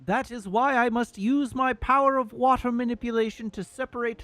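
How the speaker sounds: lightly voiced noble Zora prince; Prince Sidon voice. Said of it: "I'll just try to do his voice normally".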